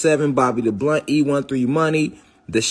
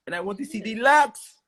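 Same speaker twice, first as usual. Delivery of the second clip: hammed-up Louisiana accent, rising high; playful mock accent; 7 semitones higher than usual. Repeats it, playing up the accent.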